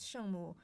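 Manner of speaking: 圣母 said in Mandarin, shèngmǔ with falling then dipping tones; Chinese word. Shown as a demonstration. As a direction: say 圣母 as a native Mandarin speaker would. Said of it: "In Chinese".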